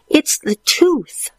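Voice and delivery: breathy high whisper. Acted. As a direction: whisper the excuse. Stuart whispers excuse.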